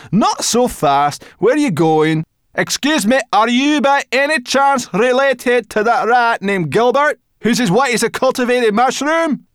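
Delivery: put-on high, loud eager girl; urgent young girl voice; brownie girl voice. Sorrel voiced.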